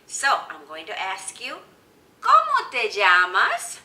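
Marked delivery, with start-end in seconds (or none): 2.2-3.8 loud, slow, projected question; big clear question to the class; teacher modelling a question. Shown as a demonstration. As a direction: ask it slowly and loudly for beginners. Asks the learners in Spanish.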